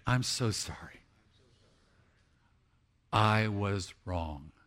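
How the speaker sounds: low, measured admission of fault; slow down on the confession; humble apology. Shown as a demonstration. Preacher leading congregation in admitting wrong, humbly. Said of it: "would you say it with me?".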